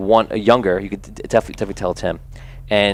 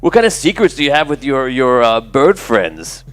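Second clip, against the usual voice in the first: lightly voiced snickering teen, teasing; mocking bully; 5 semitones higher, 3 dB louder than usual. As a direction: sneer about his secret bird friends. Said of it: "He goes".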